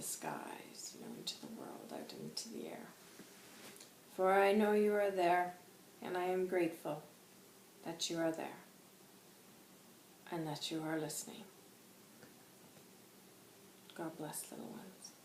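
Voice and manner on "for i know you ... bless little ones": measured blessing, starting firm and fading; spirit guide. Acted. Channels White Hawk's blessing.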